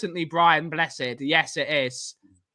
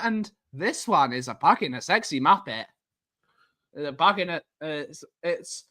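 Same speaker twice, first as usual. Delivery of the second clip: stifled giggles; 5 semitones lower than usual. Real, not acted. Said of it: "You can't even speak".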